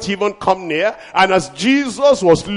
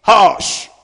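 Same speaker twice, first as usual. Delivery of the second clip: commanding hush; 4 dB louder than usual. Shown as a demonstration. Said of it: "That's authority".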